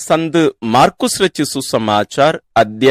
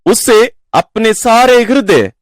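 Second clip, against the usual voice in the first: measured, solemn Gospel reading with raised pitch on key phrases; scripture reading; 3 semitones higher than usual. Acted. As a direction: proclaim the verses deliberately, pausing between phrases. Reads the Gospel passage aloud.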